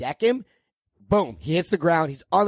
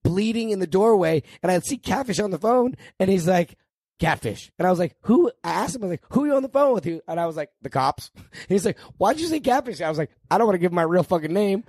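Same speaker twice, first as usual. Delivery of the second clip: downstairs neighbor telling it; 6 semitones higher than usual. Retold or imitated. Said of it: "to hear him tell the story".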